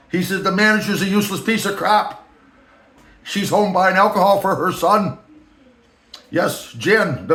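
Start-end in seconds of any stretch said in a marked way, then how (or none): 0.4-5.2 the speaker's voice. Retold or imitated. The boss badmouthing the manager, high mocking voice. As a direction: gossip like the boss. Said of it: "I'm just filling in voice".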